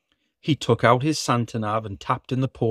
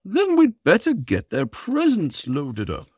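Santa voice; 8 semitones higher than usual. Acted. Santa speaks.

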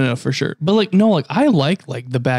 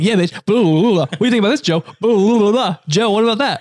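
hyped-up rapid fire; 7 semitones higher than usual. Retold or imitated. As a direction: fire it off, pumped up. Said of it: "I'm like".

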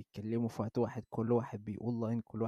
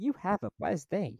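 polite customer farewell; 9 semitones higher, slower than usual. Retold or imitated.

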